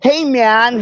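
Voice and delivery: a slight hint of his laid-back "Hey, man"; quoting him in passing, barely voiced; a mild mimic of a beach-guy greeting; lightly imitating Schumacher. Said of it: "when he says shit like".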